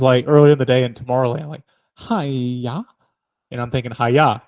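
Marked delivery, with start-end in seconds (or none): 1.9-2.8 drawn-out hi-ya with a rise; imitated noise. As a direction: mimic an overheard noise, stretched out. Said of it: "I heard the noise".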